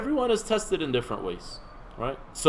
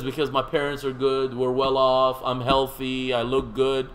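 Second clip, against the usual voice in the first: mildly complaining, evenly pitched list; imitating someone listing her grievances; retold complaint; 3 semitones lower than usual. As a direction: lightly act out a monotone complaint. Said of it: "she was complaining".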